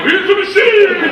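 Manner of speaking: high, roaring answer with a drawn-out end; rowdy cheer. Retold or imitated. Gangsters answering his catchphrase over beers, rowdy shouted cheer. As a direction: yell it back like a drunken crowd.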